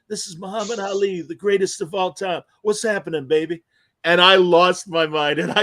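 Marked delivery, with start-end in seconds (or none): 0.1-3.6 lightly voiced Muhammad Ali; a hint of Ali's boxer swagger; Ali impression. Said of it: "And he went".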